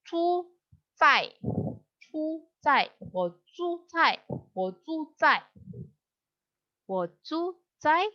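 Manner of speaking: zhu zai with a clear zh sound; model pronunciation. Shown as a demonstration. Teacher drills zhu zai for her students, careful and clear. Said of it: "Jadi ini bacanya".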